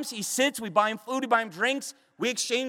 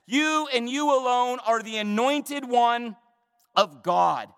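slow, weighty "anointed one", dropping on "of God"; deliberate, emphatic proclamation; emphatic declaration; 2 semitones higher, 3 dB louder, slower than usual. Retold or imitated. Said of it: "it's emphatic".

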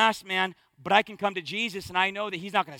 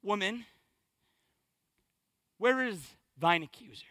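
şefkatli İsa; 7 semitones lower, 10 dB quieter than usual. Acted. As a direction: quote it softly, letting each phrase fade toward a whisper. Voicing Jesus to the accused woman.

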